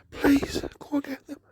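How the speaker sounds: tearful plea. Real, not acted.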